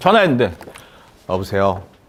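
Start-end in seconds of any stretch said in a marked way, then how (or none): 1.3-1.8 very low, listless, drained, low-energy voice. Showing how a phone greeting to a customer sounds: low, low-energy voice. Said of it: "이렇게 저음으로 막 진짜 힘 떨어지는 목소리로".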